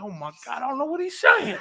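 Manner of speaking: high, laughing "I can't follow him"; high laughing mock panic; laughing disbelief. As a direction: laugh through the confusion. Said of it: "and I'm like".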